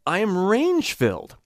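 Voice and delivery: range-filled rising into head voice; wide pitch range. Shown as a demonstration. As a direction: let the pitch leap up. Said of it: "you can even hear".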